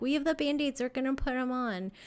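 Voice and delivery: eager Cupid fairies. Acted. Fairies offering Band-Aids for a heart, lightly acted eagerness. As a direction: pipe up lightly as helpful fairies. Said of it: "your little Cupid fairies are like".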